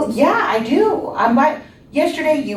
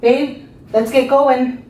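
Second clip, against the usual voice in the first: calling the family to dinner, raised high; yelling across the room; 5 semitones higher, 3 dB louder than usual. Acted. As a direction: call out loudly to another room. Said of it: "came out to the living room yelling".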